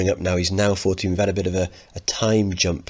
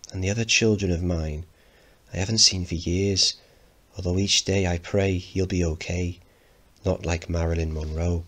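slower, sadder. Shown as a demonstration.

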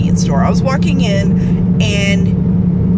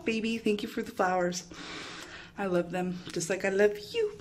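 1 tender hush; 3 semitones lower, 16 dB quieter, faster than usual. Real, not acted. Thanking boyfriend for roses.

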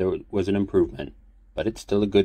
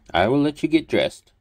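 put-on old priest voice; 9 semitones higher, 5 dB louder than usual.

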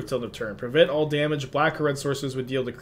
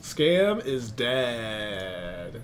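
dog voice; much slower than usual. Pretend. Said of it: "I was doing my dog voice".

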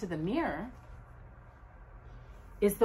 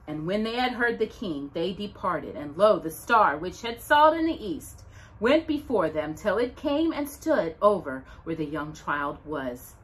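scripture reading. Acted. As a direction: read it like the Christmas gospel to children. Reads the Bible passage aloud.

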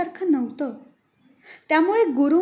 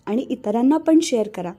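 louder, upbeat announcer read; podcast outro announcer; 2 semitones lower, 3 dB louder than usual. Acted. Host addresses listeners at the end of the episode, louder announcer read. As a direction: announce the credits and ask listeners to subscribe.

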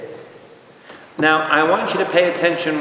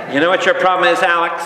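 raised, louder heckle from the stands; mock-scolding mom at the game; imitated mother yelling; 5 semitones higher, 4 dB louder, faster than usual. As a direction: scold a ballplayer like his mother would. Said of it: "she yelled at Alex Rodriguez".

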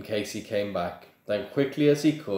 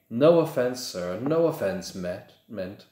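hasty apology; 3 semitones higher than usual. Acted. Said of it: "Mister Borgin says quickly".

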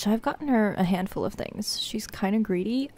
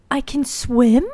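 put-on voice; 4 semitones higher, 5 dB louder, slower than usual. Real, not acted. Repeats in put-on voice.

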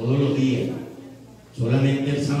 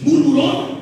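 much higher, loud mocking yell; shouted insult; 9 dB louder, slower than usual. The preacher calls the people grumblers, loud high shout.

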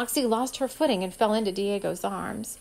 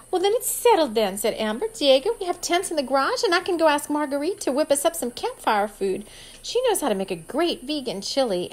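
put-on excited girl; 6 semitones higher, 4 dB louder than usual. A narrator's reading. Amber bright, high.

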